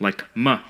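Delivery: "m" as a quick schwa "mə"; reduced my. Shown as a demonstration. Linguist demoing "my" reduced to "mə". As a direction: say "m" as a bare "mə". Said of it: "pronounced with a schwa when it's unstressed".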